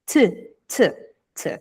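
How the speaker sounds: a soft light "t" repeated; soft t sound. Shown as a demonstration. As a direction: tap the t gently, three times. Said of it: "É mais suave". (t suave e leve)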